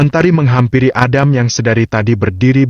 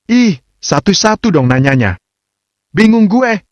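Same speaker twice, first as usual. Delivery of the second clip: high, gossipy Jakarta slang among friends; chatty girl-talk whine; slangy party tone; 10 semitones higher than usual. A narrator's reading. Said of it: "intonasi suara istrinya yang sangat berbeda".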